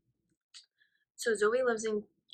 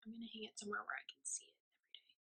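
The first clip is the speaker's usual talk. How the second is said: quick, softer whispered aside; fast whisper; 15 dB quieter, faster than usual. Real, not acted. Friend planning where to hang Zoe's ornament, quick whisper. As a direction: hurry it out under your breath, delighted. Quietly excited over an ornament.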